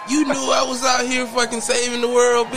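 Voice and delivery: angry. Retold or imitated. Angry rant at girlfriend.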